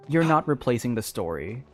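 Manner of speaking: ordinary talk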